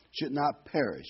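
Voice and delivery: "perish" given deliberate emphasis; stress on perish. Shown as a demonstration. Preacher rereading verse to congregation, emphasizing "perish". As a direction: lean on the word "perish". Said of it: "Let me emphasize the word perish".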